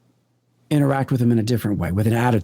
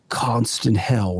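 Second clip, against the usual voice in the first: scary voice; slower than usual. Retold or imitated. Podcaster replays a scary voice for the host, slow and eerie. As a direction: drag it out like a ghostly recording. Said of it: "this scary voice saying".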